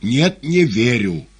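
short, loud and slow refusal; the master curtly refusing to believe the cat; curt reply. A narrator's reading. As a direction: cut him off flatly. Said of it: "коротко ответил Воланд".

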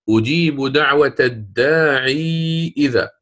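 slow recital holding the vowel of الداعي; Quran recitation. Shown as a demonstration. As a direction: recite with a long madd. معلم يتلو آية مستشهدا. (تلاوة قرآنية بمد طويل)

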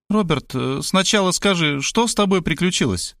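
a lightly voiced curious wife; Tamara voice. A narrator's reading.

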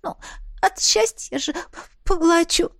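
high, teary but happy; teary happy sob, voiced high; sobbing while smiling. A narrator's reading. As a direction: cry and smile at once. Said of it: "всхлипнула я, улыбаясь".

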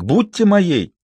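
a hint of an old suitor begging; pleading proposal. A narrator's reading. Папик proposes. (высокая мольба старика)

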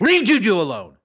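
high loud plea; defending Juju. Real, not acted. Shouting at Juju's critics to back off.

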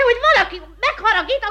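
high laugh through the words; laughing as she warns them; laughing boast. Acted. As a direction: chuckle while bragging. Wolfné boasting of her temper.

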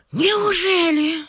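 slow, drawn-out astonished question; amazed disbelief. Acted. Mother marvels at the match. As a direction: savour the wonderful news. Mother hears of governor's son.

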